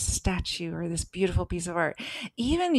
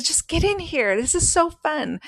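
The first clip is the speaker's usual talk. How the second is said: coaxing; 8 semitones higher than usual. Retold or imitated. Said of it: "she says".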